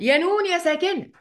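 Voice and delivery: lightly acted chat, calling out to the letter noon; addressing the noon. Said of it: "وأقول".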